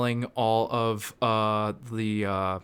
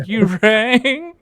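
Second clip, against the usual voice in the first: a louder, higher hammed-up butler's "You rang"; Lurch butler voice; 8 semitones higher, 6 dB louder than usual. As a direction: play the spooky butler answering the bell. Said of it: "Him responding to the Tubby McWhiteface saying".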